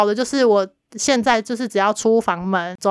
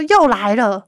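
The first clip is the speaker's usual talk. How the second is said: mock yell; 4 dB louder, much slower than usual. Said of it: "她就这边大叫说".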